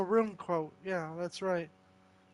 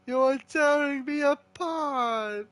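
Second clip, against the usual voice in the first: Tommy Wiseau line; 6 semitones higher than usual. Retold or imitated. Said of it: "recite another line from The Room".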